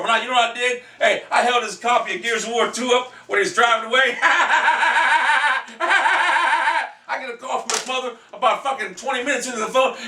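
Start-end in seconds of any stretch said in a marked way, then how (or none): 4.2-7.1 long, high staccato cackle; high, drawn-out gloating "ha-ha-ha"; gloating laugh. Real, not acted. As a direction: cackle gleefully in two long rattling bursts. Gloating over holding up son's game.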